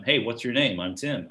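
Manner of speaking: lightly imitated American introduction; American accent. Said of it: "upset any of your American listeners".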